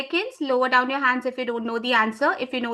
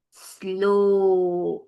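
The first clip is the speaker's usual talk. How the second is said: 'Slow' stretched long and lower; elongated SLOW; 4 semitones lower than usual. Shown as a demonstration. Trainer shows teachers the stressed word, elongated. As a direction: draw out 'Slow' on a sustained low vowel. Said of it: "it has to be stressed and elongated".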